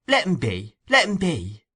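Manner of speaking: urgent high plea; hasty plea. A narrator's reading. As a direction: step in quickly. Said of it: "coming hastily forward".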